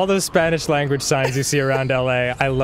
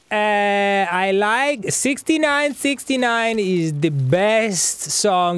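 imitating dad; 6 semitones higher, much slower than usual. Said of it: "he was like".

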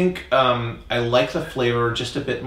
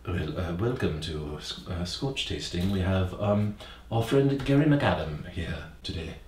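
upper class British; 6 dB quieter than usual. Pretend. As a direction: play the British host welcoming guests, unhurried. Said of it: "upper class British".

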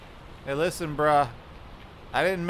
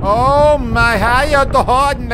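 higher, louder, slow sing-song hello; mock sweet greeting; 8 semitones higher, 10 dB louder, much slower than usual. Gamer nervously greeting a monster, mock sweet. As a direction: greet the creature in a fake friendly voice.

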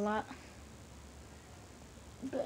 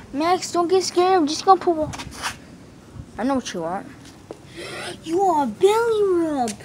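higher, louder dog talk; squeaky praising a dog; 5 semitones higher, 3 dB louder than usual. Real, not acted. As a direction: coo at the puppy. Soothing the dog.

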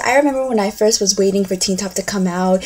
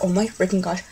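starstruck; 8 dB quieter than usual. Acted. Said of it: "probably not even gonna look at their faces".

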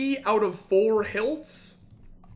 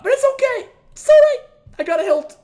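high, loud, strained cheer; fake-happy, through a laugh; forced cheerfulness; 7 dB louder, much faster than usual. Real, not acted. Pretending not upset after bad drop.

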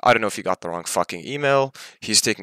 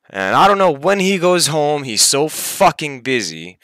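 1 angry rant; 5 semitones higher, 3 dB louder than usual. Real, not acted. Ranting about unpaid money.

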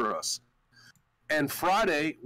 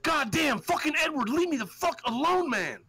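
high, pleading mock voice at Edward; hammed-up exasperated begging, pitched up; mock whiny plea; 10 semitones higher than usual. Retold angry plea to Edward.

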